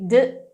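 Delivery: isolated, released "d"; short burst of a "d" sound; exploded D. Shown as a demonstration. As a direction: pop the "d" on its own. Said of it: "ao invés de explodir".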